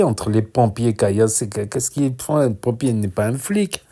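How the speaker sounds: holding back hiccups; suppressing hiccups. Real, not acted. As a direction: talk while fighting hiccups. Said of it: "j'ai le hoquet".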